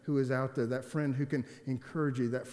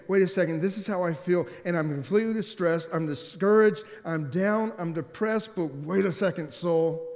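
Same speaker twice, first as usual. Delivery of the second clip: raised, insistent protest; urgent self-confrontation; 4 semitones higher, 4 dB louder than usual. Acted. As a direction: argue with your own discouraged soul. Acting the psalmist confronting his soul.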